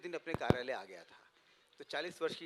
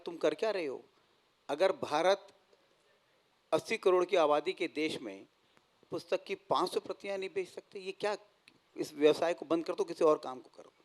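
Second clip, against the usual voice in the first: mildly voiced annoyed father, raised a little; retold angry father; 2 semitones higher, 5 dB louder than usual. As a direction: retell a father's scolding with some force. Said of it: "तो पिताजी बहुत नाराज़ हुए". (पिता की नाराज़गी की हल्की नकल)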